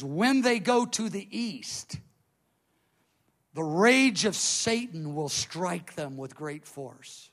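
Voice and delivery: slow, weighty pronouncement; measured and solemn, stretching the key words; mighty angel. Retold or imitated. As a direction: proclaim it like an archangel's prophecy. Archangel's pronouncement, acted.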